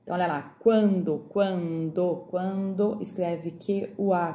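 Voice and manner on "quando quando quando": "quando" repeated with a drawn-out "quan"; sounding out. Shown as a demonstration. Teacher dictating spelling to pupils, "quando" slowly sounded out. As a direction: stretch the KW glide and nasal vowel in "quando". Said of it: "lembrar o som do que".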